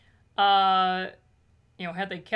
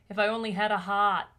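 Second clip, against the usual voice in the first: put-on Boston accent; 4 dB louder than usual. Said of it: "He's got the thickest Boston accent".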